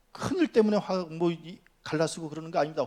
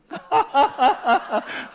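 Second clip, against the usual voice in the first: high, loud burst of laughter; hearty laugh; 10 semitones higher, 9 dB louder than usual. Real, not acted. Preacher amused by his own admonition, laughing. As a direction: laugh out loud in a quick run.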